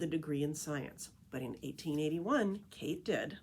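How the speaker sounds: lively picture-book read-aloud voice; story narration. A narrator's reading. Reading The Tree Lady to listeners, storytelling narration. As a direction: read it like a storyteller to a group of kids.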